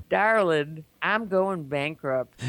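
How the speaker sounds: slow Southern confession; Southern accent. Retold or imitated. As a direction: draw out the bad news in a Southern accent. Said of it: "It's got a Southern accent".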